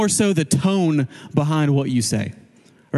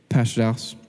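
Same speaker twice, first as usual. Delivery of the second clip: a hint of a grumbling objector, pitched down; grumbler; 2 semitones lower than usual. Grumbler objecting to the pastor in a team meeting, lightly grumbling. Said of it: "I had a grumbler in the group".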